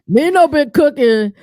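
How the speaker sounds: laughing through the words, slow. Real, not acted. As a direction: giggle out the tease. Laughing while teasing co-host.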